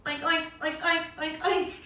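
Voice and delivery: playful piggy oinking; piggy oinks. Shown as a demonstration. Teacher oinking like a pig for the kids. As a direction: grunt out oinks like a piglet. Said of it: "what do piggies say?".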